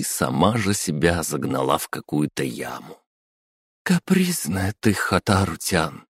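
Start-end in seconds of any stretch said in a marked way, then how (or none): 3.8-6.1 высокий укоряющий голос; дразнит своё отражение; teasing herself. Acted. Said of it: "сказала она своему отражению". (с укором себе в зеркало)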